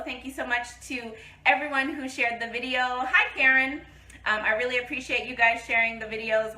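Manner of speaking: talking while chewing gum. Real, not acted. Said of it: "Oh, I have gum in my mouth".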